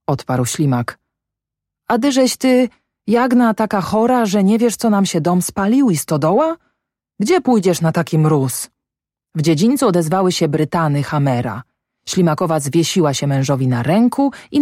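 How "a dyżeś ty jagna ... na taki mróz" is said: higher, pleading alarm; worried husband reasoning with her. Acted. Husband urging his feverish wife to stay, high and alarmed.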